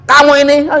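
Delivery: imitating a teacher losing his temper; angry teacher. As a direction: flare up at a cheeky reply. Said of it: "Jadi marah Ustaznya".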